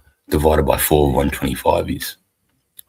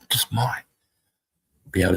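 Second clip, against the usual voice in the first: whispered aside; 4 semitones higher than usual. Acted.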